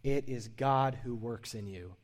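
slow, deliberate highlight; slow and weighty; slow emphasis. Shown as a demonstration. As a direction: lay each word down slowly for note-takers. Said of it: "I would highlight this if you're taking notes".

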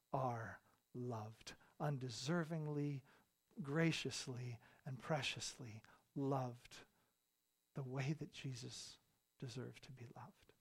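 soft, low and spaced out; tender assurance. Real, not acted. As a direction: let each word settle gently on the congregation. Sermon climax drops to tender assurance.

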